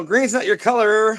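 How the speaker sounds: drawn-out heckle without real volume; imitated yell. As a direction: imitate a guy calling out a window. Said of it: "had a guy yell, yell out the window".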